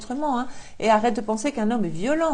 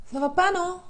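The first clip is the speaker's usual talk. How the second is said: scolding; 8 semitones higher than usual. Real, not acted. Scolding the viewer.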